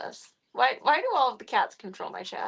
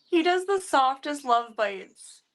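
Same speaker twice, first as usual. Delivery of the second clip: cat talk; 6 semitones higher, 5 dB louder, slower than usual. Real, not acted. Gushing over the kitten's love bites.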